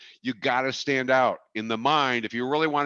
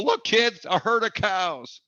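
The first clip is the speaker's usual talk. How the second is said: mock excited dad; 11 semitones higher, 4 dB louder, slower than usual. Mock dad stopping car for cows.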